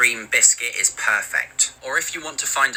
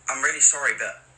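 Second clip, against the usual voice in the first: polite awkward Brit. Pretend. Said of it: "Maybe something like this".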